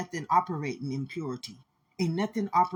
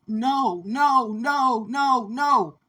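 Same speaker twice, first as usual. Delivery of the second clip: raised, pleading cries of no, higher and louder; crying out no; 5 semitones higher, 5 dB louder, much slower than usual. Retold or imitated. A child crying out no against the darkness, pleading. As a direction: beg it to stop, voice climbing. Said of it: "I'm crying out".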